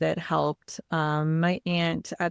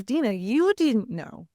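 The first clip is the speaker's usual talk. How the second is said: higher-pitched mimicked protest; upset, offended; 4 semitones higher than usual. Dad reminding his daughter she didn't know either, offended imitation. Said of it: "he was really upset and really offended".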